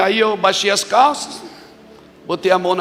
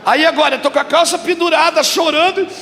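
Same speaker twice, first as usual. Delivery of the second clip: tearful retelling; 11 semitones higher than usual. Retold or imitated. Retelling crying in office.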